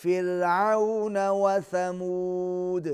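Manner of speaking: slow, measured tajweed chant; teacher modelling a recitation; Quran recitation. Shown as a demonstration. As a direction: recite it slowly for the pupil to copy. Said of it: "teacher models verse".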